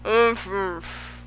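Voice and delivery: muffled umph umph through a full mouth; mumbled umphs. A narrator's reading. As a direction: mumble it with cheeks stuffed with cake. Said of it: "mumbled the Earl".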